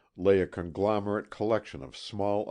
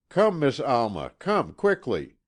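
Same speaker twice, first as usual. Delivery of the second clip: louder and higher urgent call; crying out; 7 semitones higher, 7 dB louder than usual. A narrator's reading. Maid Mary calls Alma urgently from the house door. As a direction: call her in a hurry from the doorway. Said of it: "crying out".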